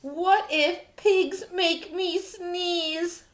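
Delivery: drawn-out fearful question; slow worried wondering. Acted. Gerald fearing pigs make him sneeze, slow worry. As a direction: stretch it out, dreading the answer.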